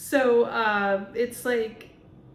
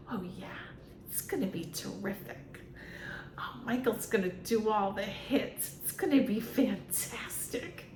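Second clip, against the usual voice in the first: softer, hollow fake-cheerful manager; fake Randy voice; 4 dB quieter than usual. Mocking a pop star's manager for viewers, softer hollow fake cheer. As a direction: purr out hollow fake enthusiasm. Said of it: "that's how fake people sound".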